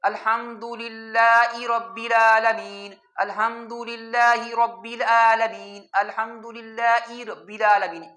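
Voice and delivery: الحمدللہ رب العالمین slowly, with the ہی said as a long ee; teacher repeating the mistaken ee reading, slow; wrong ee for hi. Shown as a demonstration. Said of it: "حاضر ہی کو ای پڑھنا ٹھیک نہیں".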